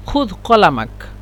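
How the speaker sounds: خذ said slowly with a clear ذ /ð/; slow demonstration. Shown as a demonstration. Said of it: "هكذا هم ينطقون".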